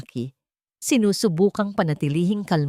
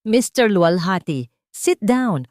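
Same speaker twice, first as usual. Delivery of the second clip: stern order; 4 dB louder than usual. Acted. Judge bangs gavel, orders.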